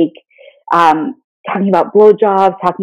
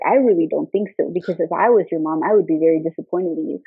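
quiet disappointed; 3 semitones lower, 7 dB quieter than usual. Retold or imitated. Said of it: "the whisper".

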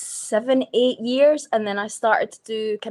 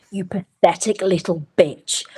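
put-on posh accent; 3 dB louder than usual. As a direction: draw it out in a put-on English accent. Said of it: "went from talking like this".

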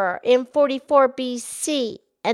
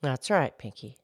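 much lower, gentle cow voice; Mildred the cow; 11 semitones lower, 8 dB quieter than usual. Acted. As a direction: drop the pitch low to play the old cow. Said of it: "Mildred the Moo Moo Cow".

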